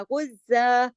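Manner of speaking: गुज़्ज़ा ending on a long a; stop form demo. Shown as a demonstration. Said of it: "इसको गुज़्ज़ा ऐसे पढ़ा".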